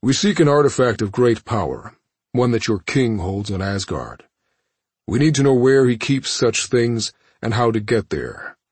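measured imperious villain; cold villain voice. Acted. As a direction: speak down to a captive. Thanos demands information.

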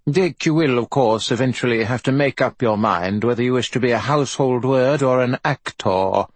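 nasal, lofty lecturing uncle; Olivier nasal voice. Acted. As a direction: look down your nose and lecture him. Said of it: "assumed a nasal voice".

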